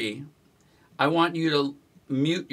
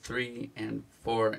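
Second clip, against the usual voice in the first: slow, softer count in time; measured counting; 3 semitones lower, 6 dB quieter, slower than usual. Shown as a demonstration. Guitar teacher counting while students tap a foot, measured count. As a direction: count the beat steadily, understated.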